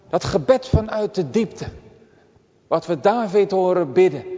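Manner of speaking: normal talking voice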